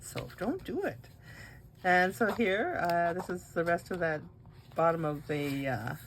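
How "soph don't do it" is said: calling out much higher, scolding. Real, not acted. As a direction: sharply warn Soph, pitched way up. Scolding Soph mid-recording.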